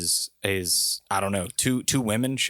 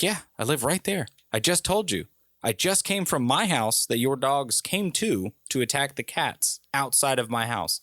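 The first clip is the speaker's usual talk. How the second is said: higher-pitched, insistent self-defense; exasperated retort; 5 semitones higher than usual. Retold or imitated. Visitor answering the suspicious neighbor, exasperated. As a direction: retort as if stating the obvious. Acted quarrel with drunk neighbor.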